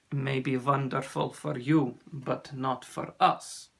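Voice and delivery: put-on measured accented reply, slowing at the end; grave sea serpent. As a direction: dampen the excitement in a lightly voiced accent. Ossian answers the excited boy.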